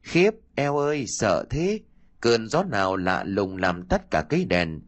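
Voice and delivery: put-on lightly mincing girlish voice; a hint of a coy young girl; man doing a woman's voice. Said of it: "Gã nói giả giọng con gái òn ẻn".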